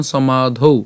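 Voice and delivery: "সমাধৌ" as so-maa-dhou with a u-glide ending; exceptional pronunciation. Shown as a demonstration. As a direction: end "সমাধৌ" on aspirated dhou. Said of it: "উচ্চারণটা কেমন?". ("সমাধৌ" শেষে ধৌ, উ-এর মতো)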